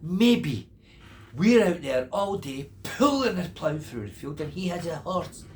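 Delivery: loud mocking repeat. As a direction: mimic him with scorn. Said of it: "Listen to him".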